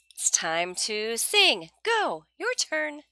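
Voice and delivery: high, slow cue to sing; cheerful teacher cue. Shown as a demonstration. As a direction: cue a child's turn to sing, slowly.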